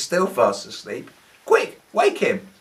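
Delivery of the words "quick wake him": high, loud, slow panicked call; urgent shout. A narrator's reading. Disciples shouting to wake the sleeping Jesus. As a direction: shout it in alarm. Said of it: "they all shouted".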